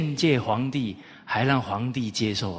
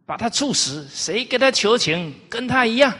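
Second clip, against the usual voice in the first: rising higher and louder into a furious order; angry king; 10 semitones higher, 5 dB louder than usual. Retold or imitated. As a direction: build to an enraged royal command. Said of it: "他很生气啊". (越说越怒的国君)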